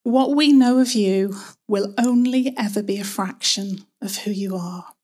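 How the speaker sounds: slow, hushed prayer with long pauses. Real, not acted. Preacher opening in prayer to Father God, slow reverent prayer. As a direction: pray slowly and reverently, phrase by phrase.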